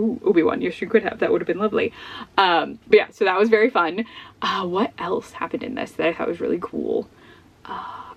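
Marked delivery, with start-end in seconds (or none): none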